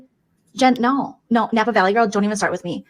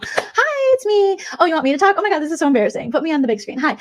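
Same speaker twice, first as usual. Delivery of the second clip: higher, catty influencer voice; mocking streamer impression; 7 semitones higher than usual. Mocking a streamer in a bee filter, catty and higher. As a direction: spoof a vain livestreamer, higher pitched. Parody streamer goes live.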